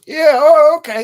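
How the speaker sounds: high, startled agreeing; flustered director. Retold or imitated. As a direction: caught off guard, hurried yes. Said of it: "He goes".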